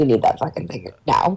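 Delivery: low, grumbling mumble under the breath. Player's character mutters after asking Peter for the chip back, mumbled under breath. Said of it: "I kind of just like mumble under my breath".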